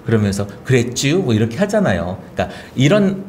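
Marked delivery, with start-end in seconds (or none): 0.6-1.2 Baek Jong-won. Retold or imitated. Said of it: "백종원 씨가 충청도가 고향이라고 해요".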